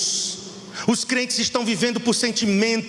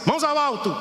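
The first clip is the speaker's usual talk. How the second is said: mock robber barking hands up, a bit higher; thief's command; 6 semitones higher than usual. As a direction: play the holdup thief briefly. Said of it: "Não é assim que o ladrão faz?". (imitando um ladrão, de brincadeira)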